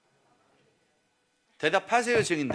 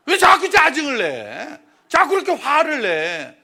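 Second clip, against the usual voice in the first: slow, louder mock complaint from wife; irritated wife; 5 semitones higher, 8 dB louder, slower than usual. Husband imitating his wife asking why he is always irritable, slow mock complaint. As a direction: drag out the annoyed question.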